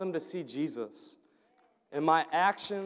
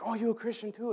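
imitated delight, pitched higher; excited; 5 semitones higher, 3 dB quieter, faster than usual. Cleaning lady finds out he is a Christian too, excited. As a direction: lift the pitch in happy surprise, lightly. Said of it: "she got so excited".

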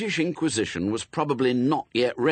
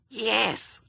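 put-on very high little-child voice; little girl. A narrator's reading. Little sister answers the inquisitor, high childish voice. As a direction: answer as an eager six-year-old. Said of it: "said Pepper's little sister, who was six".

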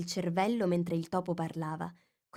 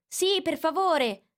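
high, slow, louder plea; chorus plea; 10 semitones higher, 5 dB louder, slower than usual. A narrator's reading. The animals pleading in chorus with the mouse. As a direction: beg together. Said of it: "si unirono a lei in coro".

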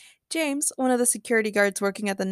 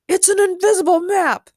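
high, loud retort; exasperated protest; 10 semitones higher, 6 dB louder than usual. Acted. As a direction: throw it back at them loudly. Exasperated Ben defends his map.

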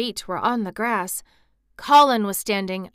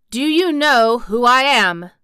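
loud, raised, lordly question; haughty and forceful; imperious demand; 4 semitones higher, 10 dB louder than usual. A narrator's reading. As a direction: demand it like a young Rajah. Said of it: "demanded the Rajah".

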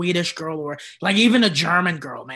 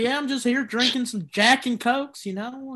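put-on slightly raised Texas accent; casual Texan small talk accent; 4 semitones higher than usual. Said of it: "do, like, a Texas accent".

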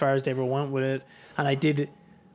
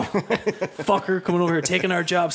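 mock redneck bigot; 3 semitones higher, 3 dB louder than usual. Mocking xenophobic commenters.

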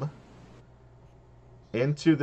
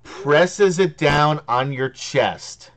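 game master scene setting; 3 semitones higher, 4 dB louder than usual. Acted.

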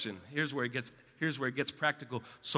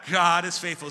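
loud repeat; 4 semitones higher, 7 dB louder than usual. Real, not acted. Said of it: "One more time".

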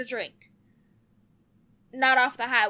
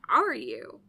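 teasing whisper. Acted. Teasing after insult claim.

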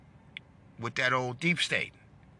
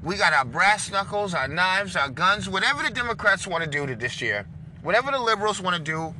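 rallying shout; 4 semitones higher than usual. Real, not acted. Rallying Republicans to fight.

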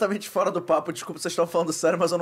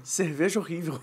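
giggling quote; 5 dB quieter than usual. Retold or imitated. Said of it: "mas ele fala assim".

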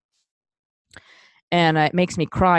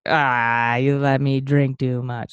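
put-on drunk crying; 4 semitones lower, slower than usual. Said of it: "a drunk crying".

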